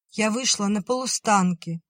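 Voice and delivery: put-on high little girl's voice calling; little sister calls her sister to open up; young girl calling. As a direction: call through the door, high and young. Nadya's child voice.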